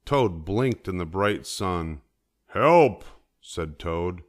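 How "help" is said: high, loud yelp for help; cry for help. A narrator's reading. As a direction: call out for help in alarm. Toad blinded, cries for help.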